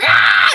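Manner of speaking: high mock scream of fright; quick startled scream, like scared children; kids' scream. Little kids jumping at the scare, mock scream. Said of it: "all those little kids be like".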